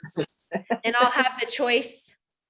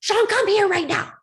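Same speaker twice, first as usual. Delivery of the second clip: higher, louder sharp call to her husband; wife summoning husband over the broken dryer, stern and loud; stern summons; 8 semitones higher, 5 dB louder than usual. Retold or imitated. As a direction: call him down like trouble's coming. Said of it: "I was like".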